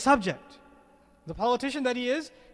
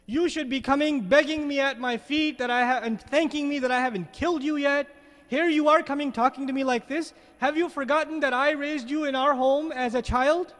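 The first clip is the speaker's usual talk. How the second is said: a touch of an arrogant king berating, slightly raised; mildly voiced scornful ruler, a little louder; Pharaoh scolding; 3 semitones higher, 3 dB louder than usual. Pharaoh on his throne scolding Musa, mock arrogant. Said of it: "What's he saying to you, to him?".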